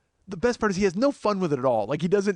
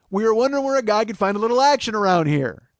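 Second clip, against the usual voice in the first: loud, insistent model delivery of the line; rehearsed line; 3 semitones higher, 4 dB louder than usual. Shown as a demonstration. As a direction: demonstrate the line emphatically, leaning on "action". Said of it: "All you have to say is".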